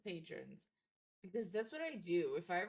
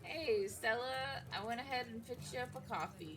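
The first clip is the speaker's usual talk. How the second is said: friendly waiter; 4 semitones higher than usual. Acted. GM voices waiter Avery.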